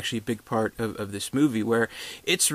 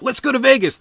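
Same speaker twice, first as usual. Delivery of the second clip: much higher, louder hammed-up cheer; mock sitcom cheer; 13 semitones higher, 7 dB louder than usual. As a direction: squeal it like a cheesy sitcom character. Mocking nineties sitcom line.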